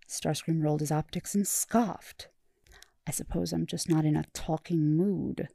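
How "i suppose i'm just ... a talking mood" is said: drip disdain lightly; sneering. Acted. Starscream brushing off his therapist, a mild sneer. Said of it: "Starscream sneered".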